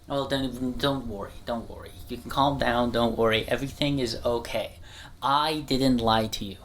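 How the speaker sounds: soft, low soothing reassurance; reassuring. Acted. Calming an upset viewer, soft and low reassurance.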